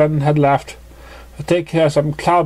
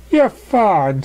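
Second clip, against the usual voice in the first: Pinkie voice; 7 semitones higher than usual. Acted.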